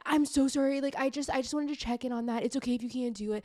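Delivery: mock a man who says sorry too much, hurried; over-apologizing guy. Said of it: "Like, over apologizing".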